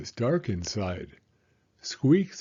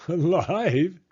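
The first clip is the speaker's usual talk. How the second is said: higher, louder giggly question; giggling; 7 semitones higher, 5 dB louder than usual. A narrator's reading. Beaver hears Franklin's worry about living dinosaurs, giggling. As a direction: giggle through an incredulous echo. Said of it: "giggled Beaver".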